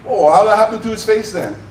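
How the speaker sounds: local cop. Retold or imitated. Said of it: "local cop".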